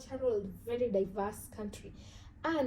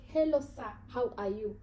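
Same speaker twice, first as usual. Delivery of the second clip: lightly imitated confident learner of English; confident mock greeting; confident greeter. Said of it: "they came confidently at me".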